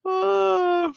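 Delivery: very high amused squeal; shrieking ah of amusement. Real, not acted. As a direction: let out a high squeal of delight. Reacting to a funny comment.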